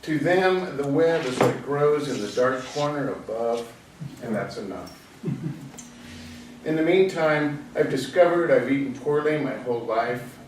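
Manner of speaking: recited lines with pauses between phrases; poetry reading. Acted. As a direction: read it as a poem, easing down to the last line. Reads own poem aloud.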